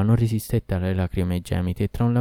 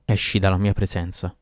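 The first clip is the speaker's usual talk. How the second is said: plain reading voice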